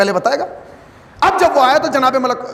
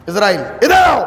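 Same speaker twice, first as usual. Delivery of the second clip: calling out. Acted. Jacob calls angel back.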